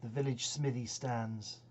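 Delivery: measured verse reading with deliberate pauses; poem recitation. Acted. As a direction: recite it line by line, leaning on the key words.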